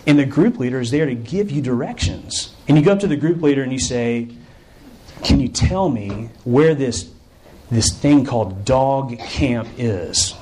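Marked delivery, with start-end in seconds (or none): 5.2-10.3 hesitant asking. Acted. Camper asking group leader directions.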